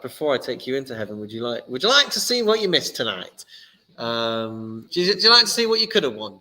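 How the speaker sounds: rising into a fast, excited quiz-host pitch; game show host. Acted. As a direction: sell it like a TV prize reveal. God's offer, game-show phrasing.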